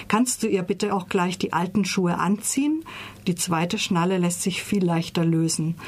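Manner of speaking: ruhig erzählend vorgelesene Romanstelle; Romanauszug vorlesen. A narrator's reading. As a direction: lies die Stelle wie eine Erzählung vor. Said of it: "Ich lese euch eine Stelle vor". (ruhige Vorleserin, die einen Romanausschnitt vorträgt)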